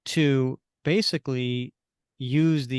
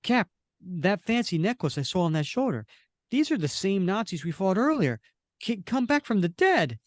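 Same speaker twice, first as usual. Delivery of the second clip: Bucky; 6 semitones higher than usual. Acted. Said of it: "Bucky points out".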